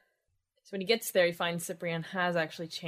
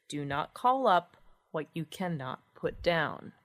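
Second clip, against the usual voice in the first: solemn maxim; slower than usual. Acted. Quotes the old principle solemnly.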